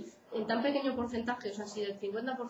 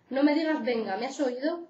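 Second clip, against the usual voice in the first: louder, threatening yell; 4 semitones higher, 5 dB louder than usual. Acted. Stephen yells at Patrick before the punches, louder angry yell. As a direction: bark it at him before hitting. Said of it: "Me grita, 'No me digas venga.'".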